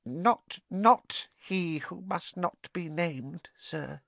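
high, slow, halting elf voice; hinting house-elf. A narrator's reading. Dobby hinting to Harry, slow high careful voice. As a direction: answer slowly, softening to the end.

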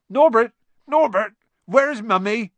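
put-on high, loud cooing baby-talk; doting pet call. Hagrid calling to his baby dragon, doting baby-talk. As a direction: call out sing-song, as to a baby.

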